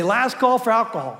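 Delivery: closing-time holler; bartender's call. Retold or imitated. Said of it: "they say".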